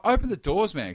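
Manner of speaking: loud, high-pitched demand. Retold or imitated. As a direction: act out yelling an order at a driver. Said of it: "time I raise my voice".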